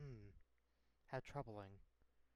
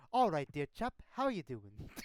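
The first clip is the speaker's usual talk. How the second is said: imitating a British-accented large fellow; mock British accent; 4 dB louder than usual. Player mimicking the game master's large stranger, British accent. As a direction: mimic the big British chap's greeting. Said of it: "I was not expecting a British accent".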